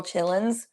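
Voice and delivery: "chillins" said with no d or r sound; dialect "chillins". Shown as a demonstration. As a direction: say children as "chillins". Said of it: "I always say little chillins".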